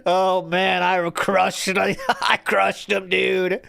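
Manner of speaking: mock gym bro bragging; lightly voiced gym bro, showing off; boasting about back flies like a gym bro. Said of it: "workout bro era".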